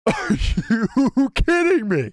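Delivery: laughing, loud and high in disbelief; laughing shout of disbelief; excited disbelief. Real, not acted. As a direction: blurt it out, thrilled and stunned. Reacting to a shocking scene.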